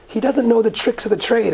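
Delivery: "tricks" given the main emphasis; stress on TRICKS. Shown as a demonstration. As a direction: lean on the word "tricks". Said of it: "an emphasis on the word tricks".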